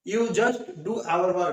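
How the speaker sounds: very slow, word-by-word English example; slow careful reading. Shown as a demonstration. Teacher reading an example to students, very slow and deliberate. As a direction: dictate each word slowly for learners. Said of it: "next sentence".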